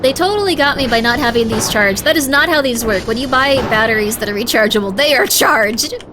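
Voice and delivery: loud, stressed complaint; indignant rant. Real, not acted. Ranting about uncharged batteries.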